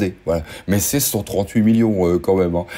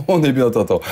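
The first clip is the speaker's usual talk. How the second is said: a hint of a movie character savouring the moment; quoted movie line. Réplique de film en voix imitée. (clin d'œil à un film, réplique imitée à la légère)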